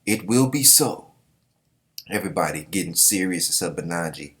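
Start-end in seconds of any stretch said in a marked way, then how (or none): 0.0-1.1 Ruboku's grand vow. Retold or imitated. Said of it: "And Ruboku's like".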